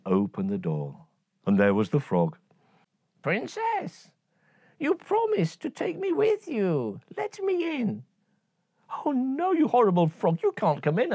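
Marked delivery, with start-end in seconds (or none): 3.2-8.0 creaky frog pleading. Acted. Frog at door. 9.1-11.1 put-on high, indignant girlish refusal; high scornful princess; disgusted princess.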